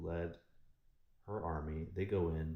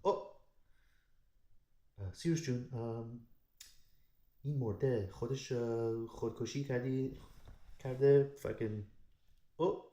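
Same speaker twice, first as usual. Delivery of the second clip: panicked servant; 5 semitones higher, faster than usual. Retold or imitated. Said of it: "He's like".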